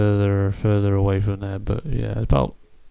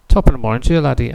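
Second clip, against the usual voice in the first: stock Irish phrase; 2 semitones higher, 5 dB louder, much faster than usual. Retold or imitated. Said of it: "Go, Go, Go is not Irish".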